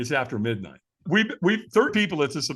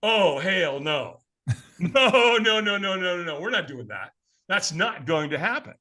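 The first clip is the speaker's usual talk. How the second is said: inner refusal; 3 semitones higher than usual. Retold or imitated. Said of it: "I remember thinking".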